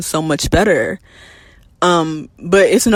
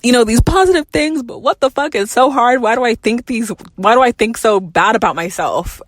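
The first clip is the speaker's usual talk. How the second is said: much higher, pleading self-questioning; higher, anguished venting to a therapist; struggling, distressed; 7 semitones higher than usual. Retold or imitated. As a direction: replay your past self at the end of her rope, pitched way up. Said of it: "I remember I was struggling".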